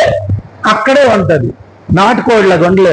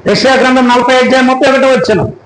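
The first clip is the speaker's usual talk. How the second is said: preaching; 4 semitones higher than usual. Real, not acted. Declaims a Bible verse.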